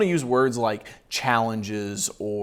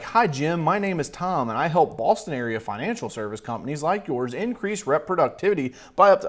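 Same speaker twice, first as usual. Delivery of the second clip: mock sales pitch; 4 semitones higher than usual. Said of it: "she's like".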